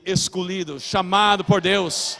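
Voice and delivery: slow, weighty proclamation with pauses; emphatic preaching. Real, not acted. Preacher declaring to the church who they are, emphatic preaching. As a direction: build to a loud finish, each phrase set apart.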